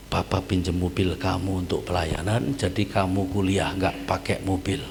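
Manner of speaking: calm fatherly talk. Retold or imitated. Father calmly answers his son.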